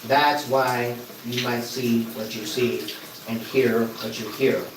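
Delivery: speaking under running water; talking in the shower. Real, not acted. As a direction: voice echoing off shower walls. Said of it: "because I'm in the shower right now".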